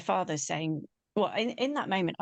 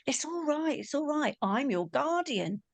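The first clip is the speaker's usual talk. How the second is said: high-pitched soothing, easing down; lightly acted guardian comforting; acted reassurance; 8 semitones higher than usual. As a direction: reassure someone scared, voiced as a retold quote. Angel reassures her in retelling.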